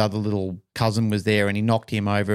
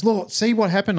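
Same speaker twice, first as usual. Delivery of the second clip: lightly mimicked mother, pitched up; reproachful mum; 10 semitones higher than usual. Mum blaming her son for the upset, mock reproach. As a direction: imitate a mum's high-voiced reproach.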